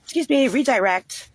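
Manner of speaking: high, sing-song mock of a caseworker cutting in. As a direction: imitate a prim caseworker interrupting. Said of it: "be like".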